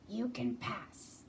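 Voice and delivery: slow, menacing troll voice; lightly voiced mean troll. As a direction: drag it out like a troll guarding his bridge. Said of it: "a mean troll".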